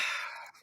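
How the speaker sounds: long, soft, breath-only sigh; deflated game master's sigh; disappointed sigh. Real, not acted. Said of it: "even Mike sounds disappointed".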